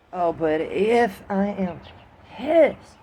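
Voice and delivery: a mock flash of factory-floor temper; showing real anger. Shown as a demonstration. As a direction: wind up slowly and explode on pissed. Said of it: "If I'm not really that mad, you really won't hear it".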